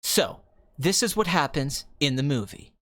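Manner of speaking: imitated calm, thoughtful storyteller; Quentin Tarantino, calm. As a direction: explain it calmly, pitched low. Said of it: "he can get calm and quiet and, like, contemplative".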